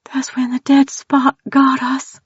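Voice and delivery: hushed, breathless Texan whisper; frightened whisper. Acted. Tildy tells Mackenzie how the dead spot caught them, scared whisper. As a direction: whisper it like the memory scares you. Fearful Tildy recalling the trap.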